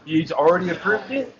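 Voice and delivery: talking with mouth full. Real, not acted. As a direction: speak through a mouthful of food. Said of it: "trying to talk to you with his mouth full".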